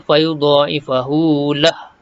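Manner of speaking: fayudha'ifahu drawn out slowly; recited. Shown as a demonstration. Teacher reciting the word for the class. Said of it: "Matikan saja".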